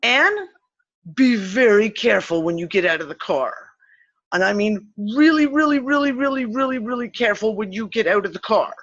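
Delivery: emphatic warning. Retold or imitated. Friend calling a warning to front-seat passenger, emphatic caution. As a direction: press the retold caution hard on each really. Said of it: "I literally call into Anne".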